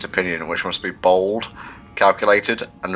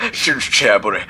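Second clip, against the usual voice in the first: Gareth's Essex swagger; 3 semitones higher, 4 dB louder than usual. Retold or imitated. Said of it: "a little bit more swagger, like".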